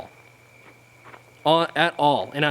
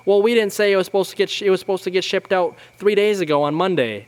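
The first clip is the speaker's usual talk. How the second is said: higher, louder, fast whiny protest; whiny dad voice; 6 semitones higher, 3 dB louder than usual. Retold or imitated. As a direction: rush it, high and whiny, mocking him. Imitating the dad arguing back.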